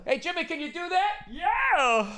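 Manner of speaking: high, airy rock-star voice; impression of a rock guitarist. Comic doing a rock guitarist answering the crowd, high and breezy. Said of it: "That's my Jimi Hendrix ex-, in-, uh, uh, impression".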